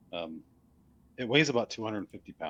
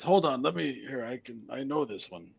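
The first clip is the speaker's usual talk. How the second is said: skeleton voice; 3 semitones higher than usual. Acted. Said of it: "He says".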